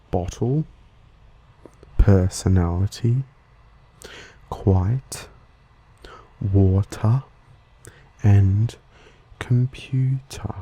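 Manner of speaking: British pronunciation with a crisp T in "bottle" and "water"; British accent. Shown as a demonstration. Host demonstrating British word list, British accent. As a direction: say each word in British English, T fully sounded. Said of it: "Spoken in a British accent".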